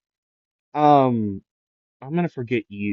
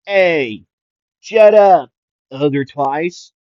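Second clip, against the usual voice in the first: snapping at his other half; 5 semitones higher, 10 dB louder, much slower than usual. Retold or imitated. Twice arguing with himself.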